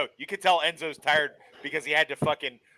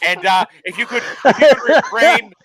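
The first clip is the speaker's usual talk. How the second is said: hammed-up Welsh accent, laughing; clumsy mock Welsh accent, posh request; bad Welsh accent; 3 semitones higher, 5 dB louder than usual. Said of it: "the worst Welsh accent I have ever heard".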